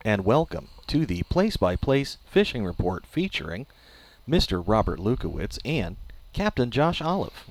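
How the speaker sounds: automated service announcer voice. Acted. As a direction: read it like a robot phone menu. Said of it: "Trying to sound like an automated service there".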